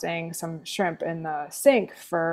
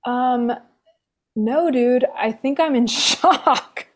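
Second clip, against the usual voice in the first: dazed laugh; 5 semitones higher, 3 dB louder than usual. Retold or imitated. Shocked self, laughing.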